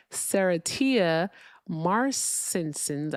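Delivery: Serratia marcescens sounded out slowly, syllable by syllable; halting attempt at Serratia marcescens, admitted wrong; careful mispronunciation. Shown as a demonstration. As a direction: feel your way through Serratia marcescens very slowly. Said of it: "I pronounced that wrong".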